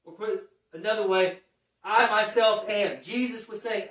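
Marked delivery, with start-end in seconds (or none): 1.8-3.0 "I myself am." slow and louder, leaning hard on "I"; emphatic I myself am. Shown as a demonstration. Preacher stressing Jesus' words to his congregation, "I" hit hard and slow. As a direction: press each word, "I" strongest, in "I myself am.". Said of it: "He was speaking emphatically".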